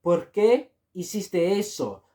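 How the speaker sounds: ¿Por qué hiciste eso? said slowly; slow model phrase. Shown as a demonstration. Teacher slowly models ¿Por qué hiciste eso? for learners. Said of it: "you can also say".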